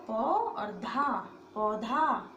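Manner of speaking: पौ and धा split apart slowly; slow syllable drill. Shown as a demonstration. Teacher to students, building पौधा slowly. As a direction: spell out पौ ... धा, one syllable at a time. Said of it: "पा पे लगा औ".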